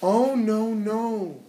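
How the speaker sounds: high, alarmed refusal; the little fly crying out no to the spider; frightened little fly. Acted. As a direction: pull back in alarm, voice jumping up.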